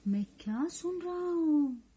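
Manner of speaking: a shush, then question lilting upward; lightly acted call for silence; hushing listener. Translating the poem character who hears something, hushing listener. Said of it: "कोई बोल रहा है".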